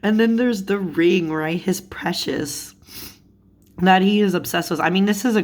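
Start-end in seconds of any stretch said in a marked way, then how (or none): 1.6-2.7 breathy whispered "precious" like Gollum. Retold or imitated. Host quoting Gollum's ring obsession, whispered. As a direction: hiss it under your breath like the creature.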